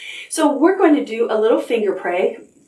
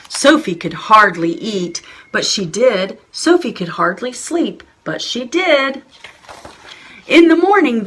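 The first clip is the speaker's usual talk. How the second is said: put-on story reading for children. Reading a picture book aloud.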